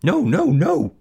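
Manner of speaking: loud, high goose squawk; high-pitched protesting bird; alarmed goose. Acted. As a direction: squawk a frantic refusal. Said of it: "said the goose".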